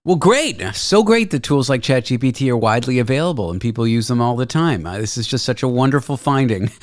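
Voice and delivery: dry mock praise; sarcastic. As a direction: overpraise it with sarcasm. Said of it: "I kid, of course".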